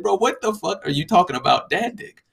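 can't believe what he heard; mock disbelief. Reacting to coworker's dad dick claim, incredulous. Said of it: "I was like".

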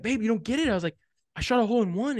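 high-pitched pleading with an unimpressed wife; retold excited insistence. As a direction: re-enact trying to make her get it.

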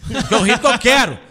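loud, laughing mock defiance; defensive outburst. Acting out his tweet to critics, defensive outburst. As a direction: blurt it out loudly as a comic retort.

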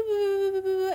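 playful spat sound effect; imitated squabble noise. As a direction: rattle off little boo sounds.

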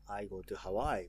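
"Hawaii" stressed on the middle syllable, like Kansai; English intonation. Shown as a demonstration. Proving English matches Kansai, "Hawaii" stressed mid-word. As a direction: lean on the "wai" of "Hawaii". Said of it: "英語でも".

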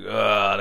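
put-on strained grunt of an old dad. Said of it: "like those old dad noises".

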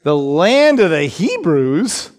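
"the land of the Hebrews" read slowly, leaning on "land"; slow down and let "land" rise. Shown as a demonstration. Preacher slowing down to point out "the land of the Hebrews". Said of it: "when you read slowly".

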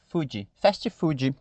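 "food" said "foodji", "fast" said "fastchi"; soft, with extra vowels on "food" and "fast"; Brazilian-accented English. Shown as a demonstration. Teacher mimicking the Brazilian way, mock accent. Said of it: "Eu já crio outra vogal de apoio".

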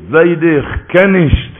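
slow, stretched-out refusal; drawn-out refusal. Acted. Grandson refusing his grandfather, slow and deliberate. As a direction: stretch each word of the refusal.

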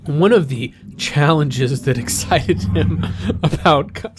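suppressed laughter breaking through; trying not to laugh. Real, not acted. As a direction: hold back a laugh mid-sentence. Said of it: "sorry, I'm trying not to laugh at this".

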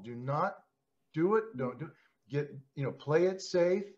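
a hint of a timid inner voice; scaredy cat voice. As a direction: nervously warn yourself off, lightly voiced. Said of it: "I call it the scaredy cat voice".

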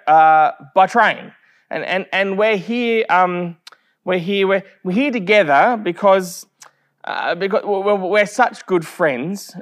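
imitating a flustered guest who keeps restarting "we're here"; halting, repeating "we're here" as if lost for words; nervous stammering. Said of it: "could bear the agony no longer".

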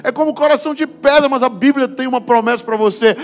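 fiery preaching. Acted. Pastor preaches to the congregation about men crying, full force. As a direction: preach it out to the whole church.

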